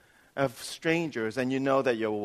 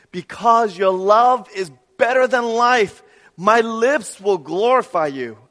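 slow, raised, declaimed psalm reading; scripture reading; 5 semitones higher, 7 dB louder than usual. Acted. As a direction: proclaim the psalm with mounting force, then settle at the close. Reads psalm aloud emphatically.

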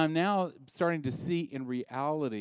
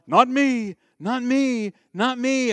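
much higher and louder, jumping in; eager protest; 10 semitones higher, 12 dB louder, slower than usual. Retold or imitated. Peter protesting to Jesus he'd never turn away, loud. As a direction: insist loudly like an eager disciple. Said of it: "Peter's over here going".

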